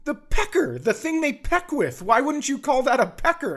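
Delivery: high mock girly pleading; imitating daughter. Daughter defending the word pecker, high imitated whine. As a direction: pitch right up, whining the logic. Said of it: "She's just like".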